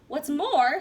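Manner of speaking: loud sharp snap; snapping Lorax. Acted. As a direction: bark out the opening words. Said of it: "snapped the Lorax".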